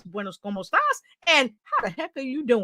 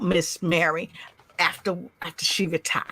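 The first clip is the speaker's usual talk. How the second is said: unvoiced whisper; whispered aside; 8 semitones lower, 7 dB quieter than usual. Real, not acted. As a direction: drop to a breathy secret. Soft aside.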